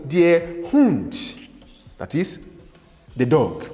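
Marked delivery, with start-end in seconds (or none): 0.1-1.4 slow, separated "der Hund"; teacher modelling German; model pronunciation. Shown as a demonstration. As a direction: say it carefully for learners to repeat. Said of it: "Say it after me".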